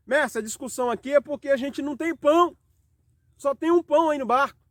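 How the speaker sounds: lightly voiced disciples justifying themselves; disciples making excuses.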